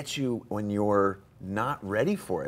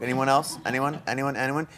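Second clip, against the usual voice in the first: calling out to audience; 5 semitones higher than usual. Real, not acted.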